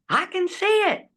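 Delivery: high, excited calling out; mock shouting. The dying father calling out, high and excited. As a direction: cry it out in wonder. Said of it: "he starts shouting".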